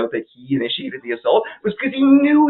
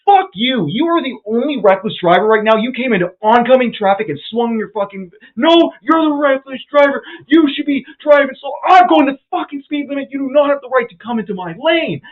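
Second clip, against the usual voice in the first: high, loud angry yelling; retold furious shouting; 9 semitones higher, 5 dB louder than usual. Yelling at the reckless driver, high furious shouting. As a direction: tear into him at full voice.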